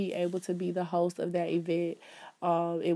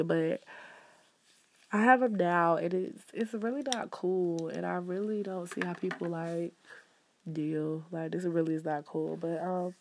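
congested, blocked nose voice; stuffed up nose. Real, not acted. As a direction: talk through a stuffy nose. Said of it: "I sound stuffed up".

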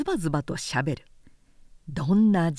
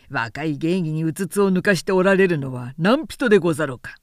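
louder, fast sneering rebuke; cold angry counter; 4 semitones lower, 3 dB louder than usual. Acted. Harada throwing the charges back at Namie, loud and biting. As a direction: cut him down with sarcasm.

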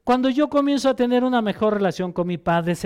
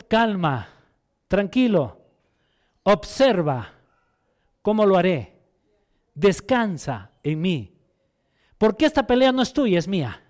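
calm reassurance; 3 semitones lower than usual. Acted. Voicing God calming the king.

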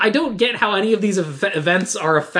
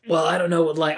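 gravelly dude voice. Retold or imitated. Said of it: "he's gotten really gravelly with it".

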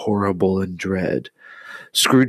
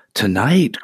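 cried out. Acted. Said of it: "cried Scrooge".

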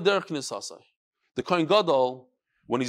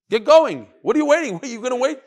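louder, higher, pushing them to act; urging louder; 5 semitones higher, 6 dB louder than usual. Acted. Teacher challenges the would-be leaders, loud and urgent. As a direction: rouse them to stop waiting.

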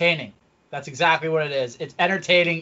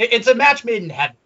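excited; 8 semitones higher, 6 dB louder than usual. Real, not acted. Excited first take of phrase.

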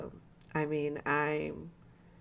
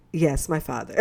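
laughing mock reply; 6 dB louder than usual. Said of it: "you just be like".

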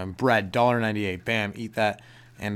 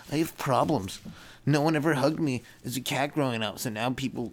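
lightly voiced cat, a little higher; voicing the cat; 4 semitones higher than usual. Cat explaining its issues in a mild put-on voice. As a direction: give the cat a sulky put-on voice. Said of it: "It's like".

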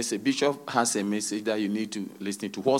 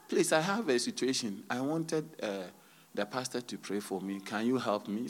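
meek plea; 10 dB quieter than usual. Acted. Church member asking the shepherd for prayer, meek plea. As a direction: imitate a congregant quietly requesting prayer.

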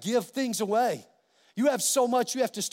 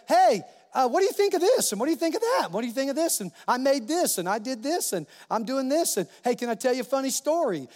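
put-on excited child; 3 semitones higher, faster than usual. Joyful daughter avoiding cleaning her room, eagerly chatty. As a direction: bubble over like a kid showing off.

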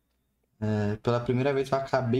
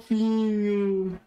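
higher, very slow cutesy coo; drawn-out cooing; 4 semitones higher, much slower than usual. Real, not acted. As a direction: stretch it out, gushing over cuteness. Cooing at cute shirt.

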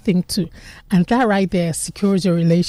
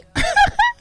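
short, very high real laugh; high burst of laughter. Real, not acted. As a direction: let out a quick squeal of laughter. Laughs at own joke.

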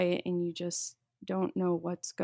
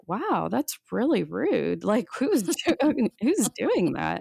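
annoyed; 2 semitones higher, 4 dB louder than usual. Retold or imitated. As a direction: act out being put off by rude people. Annoyed thought in a movie.

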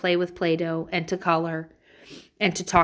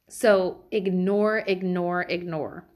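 ignore said slower then fading to near silence; fading repeat; slower than usual. Real, not acted. Advising parents, repeats the word fading out.

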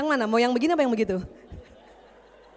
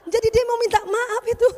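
real laughter, higher and louder; laughing; 10 semitones higher, 7 dB louder than usual. Real, not acted. Doctor laughing at the Papua mother's story to the audience. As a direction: laugh through the line.

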